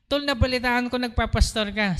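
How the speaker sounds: a hint of the eager friend on the phone; friend's voice. Friend's voice in retold call. (bahagyang ginagaya ang boses ng kaibigan)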